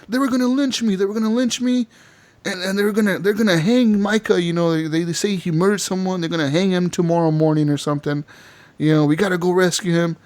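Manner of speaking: high, frantic rush of words; panicked pleading. Retold or imitated. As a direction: blurt it out in a panic. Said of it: "And he's like".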